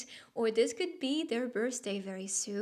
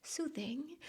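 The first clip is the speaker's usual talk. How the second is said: softly soothing, raised in pitch; 4 semitones higher, 8 dB quieter than usual. Pretend. Reader describing the viewer's voice, softly soothing. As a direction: say it gently, much softer, lilting upward. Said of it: "find it very".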